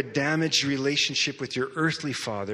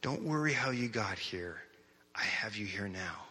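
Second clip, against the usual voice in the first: still small voice; 5 semitones lower, 8 dB quieter than usual. Retold or imitated. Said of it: "this still small voice says".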